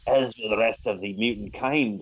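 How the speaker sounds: lightly voiced pirate villain; a touch of pirate menace; Ahab. Villain threatening all mutant kind, mild pirate voice. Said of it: "that's my pirate voice".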